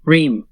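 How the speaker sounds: "Reem" held lightly on its vowel; lightly sustained. Shown as a demonstration. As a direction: draw out "Reem" gently, without force. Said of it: "Sustain it lightly".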